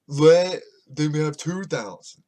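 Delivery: loud, drawn-out mock yell; mock screaming. Mimicking the president's TV demand, slow mock scream. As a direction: imitate a president hollering slowly on TV. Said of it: "he starts screaming".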